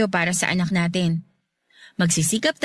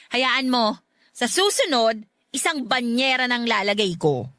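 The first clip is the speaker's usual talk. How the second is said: teasing; 4 semitones higher than usual. Acted. Wife keeps teasing about salt.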